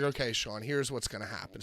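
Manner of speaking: low, soft confiding voice; retold low aside. Wrestler taking Sean aside during match, low hushed confiding. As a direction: quietly lay out a plan.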